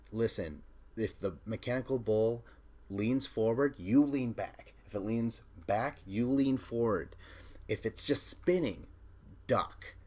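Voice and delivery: emphatic instructions to a rider; urgent coaching. Retold or imitated. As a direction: coach it firmly, punching each direction. Retold coaching before the ride.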